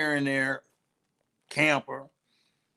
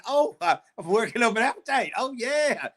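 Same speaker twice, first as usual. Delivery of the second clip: hungry dinosaur voice; 9 semitones higher than usual. Acted. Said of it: "this dinosaur is going".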